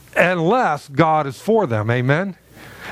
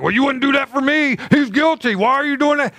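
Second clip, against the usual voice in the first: put-on higher, whiny child complaint; jealous sibling; 6 semitones higher than usual. Sibling protesting favouritism, higher whiny voice. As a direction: play the child crying unfair. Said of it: "the other children are like".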